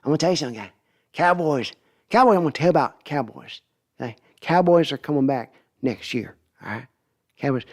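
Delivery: lightly voiced Jerry Jones pep talk; folksy owner hyping the Cowboys, lightly done; a hint of Jerry Jones selling his team; Jerry Jones impression. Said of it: "I gotta do".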